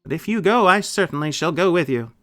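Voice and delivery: a loud, lifted tin man lament; Tin Woodman voice. A narrator's reading.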